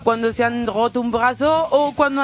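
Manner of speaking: put-on Spanish with a French accent. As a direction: play a fussy French hairdresser. Comic French hairdresser character.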